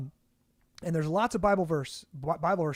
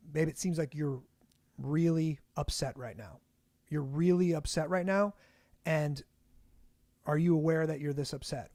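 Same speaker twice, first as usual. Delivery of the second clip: calm, sober-minded. Shown as a demonstration. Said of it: "the tone of that statement matters a lot".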